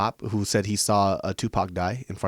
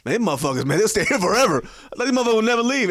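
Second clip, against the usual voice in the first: mild real-voice impression; 10 semitones higher, 4 dB louder, faster than usual. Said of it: "black man voice".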